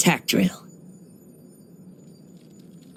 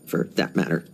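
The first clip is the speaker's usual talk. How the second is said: whispered aside; 11 semitones lower, 5 dB quieter than usual. Acted. Wry aside about trusting himself.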